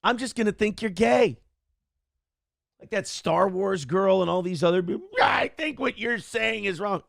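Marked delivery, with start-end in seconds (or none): 5.2-7.0 mock shout. Mocking Star Wars girl.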